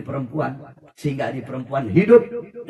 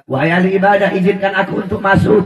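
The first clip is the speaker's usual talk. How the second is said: suara perempuan memohon masuk; 5 semitones higher, 8 dB louder than usual. Retold or imitated. Perempuan kehujanan minta masuk.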